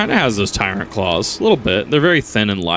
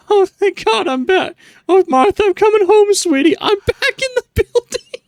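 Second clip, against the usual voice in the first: much higher, slow, hammed-up relief; hammy hero voice; 4 dB louder, slower than usual. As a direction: squeal it like an overjoyed husband. Streamer hams up returning hero.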